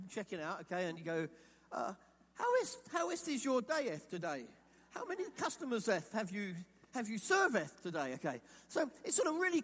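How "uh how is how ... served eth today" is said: mock old English. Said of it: "can you imagine talking like that".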